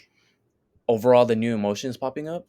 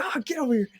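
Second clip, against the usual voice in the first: high-pitched mock cartoon cry; imitated character exclamation; faster than usual. Retelling the angry emotion scene, high mock exclamation. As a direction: act out the character's grab, voice up high. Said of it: "And he's like".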